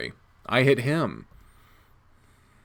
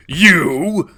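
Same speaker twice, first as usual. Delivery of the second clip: loud commanding shout, much higher; sharp shout; 6 semitones higher, 11 dB louder than usual. Acted. Rescuer shouts at the wolf, a loud commanding call. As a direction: bark it out to stop the attacker.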